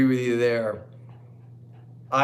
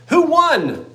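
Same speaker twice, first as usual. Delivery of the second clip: excited asking; 13 semitones higher, 7 dB louder than usual. Real, not acted. Eager to learn the winner.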